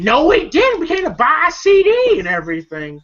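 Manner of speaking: high, insistent retold denial; mock protesting. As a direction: argue back in a jumped-up pitch. Acted argument, denying accusation.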